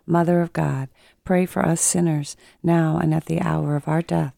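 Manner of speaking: slightly congested voice with a cold; head cold. Real, not acted. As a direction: speak through a slight cold. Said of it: "sounding like you got a little cold".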